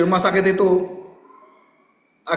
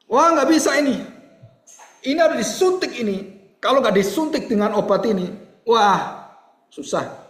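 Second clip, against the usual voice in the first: dokter cemas, nada tinggi; dokter panik; 6 semitones higher, 4 dB louder than usual. Acted. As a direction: perankan dokter yang kewalahan. Acting the doctor's alarmed verdict. (dokter yang panik)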